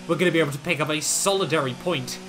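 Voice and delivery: excited. Real, not acted. Yellow flags, cars out, points.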